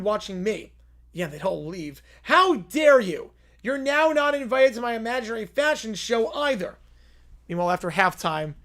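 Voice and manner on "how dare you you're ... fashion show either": haughty, offended little princess; hammed-up outrage at a rude boy; mock indignant princess. Princess scolding the other kid, mock indignant.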